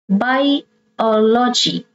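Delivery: Biology very slowly, broken after Bi, stress on OL; third-last syllable stressed. Shown as a demonstration. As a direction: sound out Bi-OL-ogy for learners, drawn out. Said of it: "you stress the third syllable from the".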